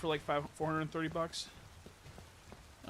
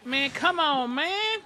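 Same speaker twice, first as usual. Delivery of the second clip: louder, higher angry complaint; frustrated yell; 12 semitones higher, 12 dB louder, much slower than usual. Real, not acted. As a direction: shout at the screen, fed up. Game goes wrong.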